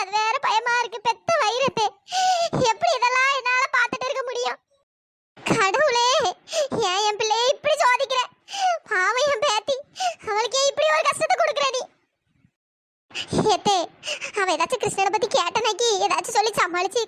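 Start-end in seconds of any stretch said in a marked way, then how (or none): 5.4-11.8 crying out to God through tears; a grandmother's sobbing prayer; tearful lament. Acted. (அழுகையுடன் புலம்பல்)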